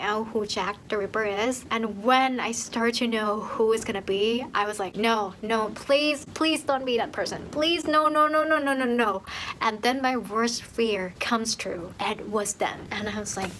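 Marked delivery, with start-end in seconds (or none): 4.9-9.2 mock desperate pleading, pitch climbing midway. Reader dreading the killer's identity, pleading. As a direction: beg in a run of repeated words.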